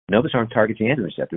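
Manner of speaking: usual speaking voice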